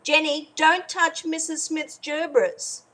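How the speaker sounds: slow, firm mum voice, lightly acted; stern mum warning. Mum warning Jenny off the witch's gerbils, stern. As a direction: warn the child off like a strict mum.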